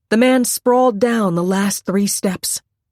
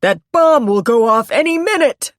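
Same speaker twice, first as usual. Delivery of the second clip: loud, raised-pitch alarm; shouted warning; 4 semitones higher, 5 dB louder than usual. A narrator's reading. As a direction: shout an urgent warning of danger. Shouted warning about the bomb.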